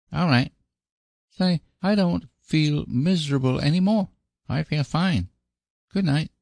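put-on high, relieved child voice; cheerful little boy. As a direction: chirp like a happy small boy.

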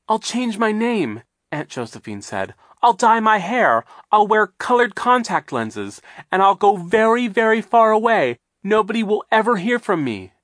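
high, loud desperate begging; desperate pleading. Acted. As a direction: beg for your life in panic. Josephine begging on.

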